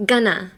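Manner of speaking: "gonna" with the weight on the first syllable ga; stress on ga. Shown as a demonstration. Teacher showing learners where the stress goes. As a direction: lean on the ga of "gonna". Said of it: "Emphasis on the ga".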